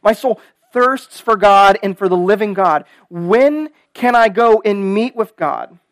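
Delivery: impassioned psalm reading, key words stretched; emphatic, measured reading from the pulpit; scripture reading. Acted. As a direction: read the psalm out with weight. Reads the psalm aloud.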